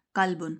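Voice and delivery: قلبن with a thin front ک sound; thin kaf. Shown as a demonstration. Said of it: "وہ باریک پڑھا جاتا ہے". (قلبن باریک کاف کے ساتھ)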